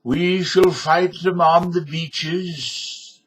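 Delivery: slow, grand wartime oratory; rally the nation slowly; Winston Churchill impression. Churchill rallies Britain for war, slow oratory. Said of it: "Winston Churchill".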